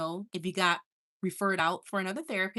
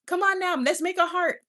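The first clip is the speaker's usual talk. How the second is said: replaying herself; 9 semitones higher, 5 dB louder than usual. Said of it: "Remember when I was like".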